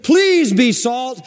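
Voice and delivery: high, slow, drawn-out plea; pleading mock request. Shown as a demonstration. Preacher mimicking a timid request. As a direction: say it like a weak plea. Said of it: "But the idea isn't".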